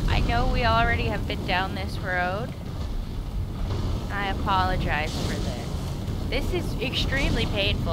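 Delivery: loud, earnest mock apology; hammed-up apology to a game character; mock heartfelt apology. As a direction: apologize like a guilty ex, loudly. Pleading apology to a hiding wolf.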